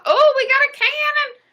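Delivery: high, loud thrilled shout; excited cheer. Real, not acted. Streamer thrilled by a cannon donation, shouting with joy. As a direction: burst out cheering at the alert.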